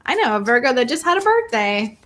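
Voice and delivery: a hint of a Southern accent. Real, not acted. Host chatting about a Virgo's birthday, slight Southern accent. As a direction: slip lightly into a Southern accent. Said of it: "I said that with a Southern accent".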